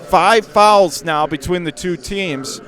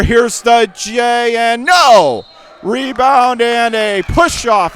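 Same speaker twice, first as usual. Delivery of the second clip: excited call; 5 semitones higher, 4 dB louder, slower than usual. Real, not acted. Jump shot misses.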